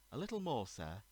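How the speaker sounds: put-on waitress with a light Polish accent, lilting up. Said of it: "in what sounded like a Polish accent".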